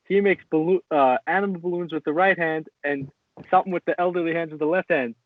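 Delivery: mocking Diaz the way McGregor did; mocking McGregor quote. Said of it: "McGregor was making fun of him".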